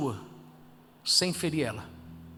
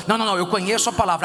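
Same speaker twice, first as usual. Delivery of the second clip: mock know-it-all; 4 dB louder, much faster than usual. Mocking a know-it-all believer.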